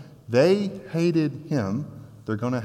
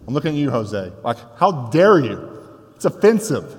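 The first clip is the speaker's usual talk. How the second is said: mock outrage. Preacher teasing Jose in mock indignation. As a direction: pretend to be deeply insulted. Mock offence at Star Wars.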